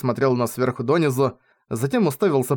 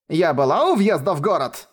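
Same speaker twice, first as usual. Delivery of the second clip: higher, lightly voiced old lady; quarrelsome granny; 4 semitones higher than usual. A narrator's reading. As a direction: insist as a squabbling granny.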